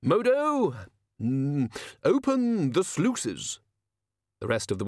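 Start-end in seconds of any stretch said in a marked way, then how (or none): 0.0-3.6 Ridcully calling out to the gardener. Acted. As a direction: hail the gardener across the room.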